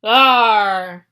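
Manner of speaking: loud monstrous bellow; booming pirate-like bellow. Acted. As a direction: roar it out from below. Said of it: "bellowed another voice".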